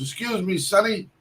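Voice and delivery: a light put-on old-timer asking the way; old man voice. Old stranger asking the young cook for directions, mock old-man voice. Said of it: "I hear he goes".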